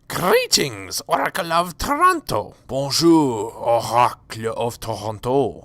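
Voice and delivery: a hint of a grand mystic greeting; lightly put-on character voice. Hailing the Oracle of Toronto, lightly put-on voice. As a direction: address the oracle with mild ceremony.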